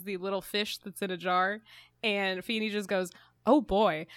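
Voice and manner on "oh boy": louder mock exclamation; oddly loud. Imitating Feeney's reaction to the little fish, oddly loud. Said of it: "it was just oddly too loud".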